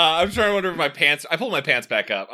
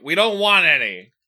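dad voice impression; 3 semitones higher, 6 dB louder than usual. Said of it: "my best impression of my dad's voice".

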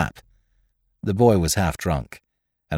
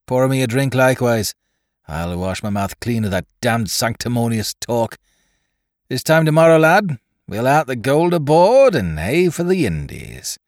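gruff pirate gunner; 3 semitones higher than usual. Acted. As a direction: bark it like a coarse sailor. Gunner Basil voiced, gloating.

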